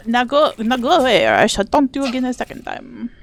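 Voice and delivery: a light, hammed-up Monty Python French taunt; mock French accent. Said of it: "That was not really French".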